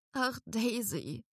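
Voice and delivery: sobbing. A narrator's reading. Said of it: "schluchzte ich".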